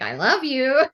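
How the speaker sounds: a recorded doll saying its line; mock toy doll, light and sweet; pressing the doll's button. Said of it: "you press the ball and it's like".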